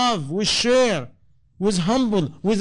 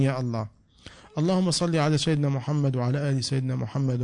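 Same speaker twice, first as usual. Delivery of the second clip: supplication, the Arabic part rushed fast; closing prayer; 3 semitones lower, much faster than usual. Real, not acted. Preacher closing the sermon with a prayer for the congregation, fast Arabic dua. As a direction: pray it out, racing through the Arabic.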